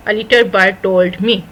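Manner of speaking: very slow, spaced words; slow idiom. Shown as a demonstration. Teacher answers her own question very slowly. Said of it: "تو وہ کیا ہوگا".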